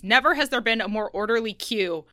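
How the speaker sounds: usual speaking voice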